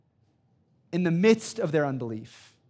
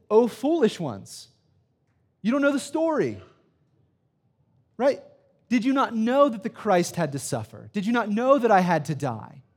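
confronting Jesus; 5 semitones higher than usual. Acted. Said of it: "He confronts".

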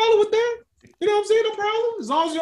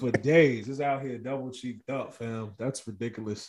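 villain voice; 8 semitones lower, 8 dB quieter than usual. Pretend. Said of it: "Come on, villain voice".

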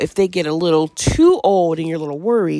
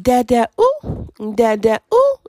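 imitating baby sound; 6 semitones higher, 3 dB louder than usual. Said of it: "just making, like, a silly sound at the end".

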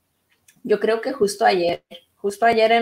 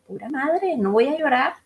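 retold determination; 5 semitones higher than usual. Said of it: "Entonces dije".

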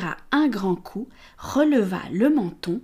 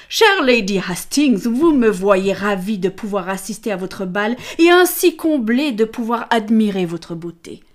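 gallant suitor; 6 dB louder than usual. Acted. Callaghan flatters Lady Amelia.

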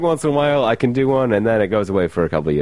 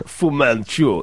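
slow, drawn-out attempt at a Russian Fu Manchu; a hesitant try at Russian; halting, half-hearted mock Russian; mock Russian accent; 5 semitones higher, much slower than usual. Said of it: "Was that your Russian?".

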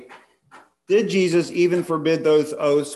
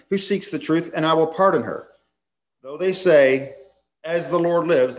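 raised, declaiming Bible reading; preacher reading Jeremiah aloud, lifted and solemn; scripture reading; 4 semitones higher than usual. Acted. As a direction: proclaim the prophet's words from the pulpit.

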